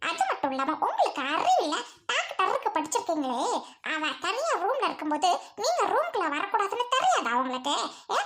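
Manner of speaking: sneering scold with bitter laughs; jealous wife scolding her husband for being in the room. Acted. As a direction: tear into the husband with mocking laughter.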